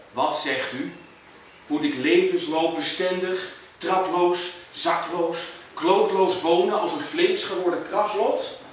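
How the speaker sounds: measured poetry reading with deliberate pauses; poem recital. Acted. Poet reciting to an audience about Houten, measured recital. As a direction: recite it line by line, weighing each phrase.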